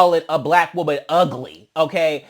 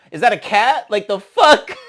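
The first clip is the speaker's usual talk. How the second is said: mocking disbelief; 4 semitones higher, 5 dB louder than usual. Real, not acted. Mocking the swipe.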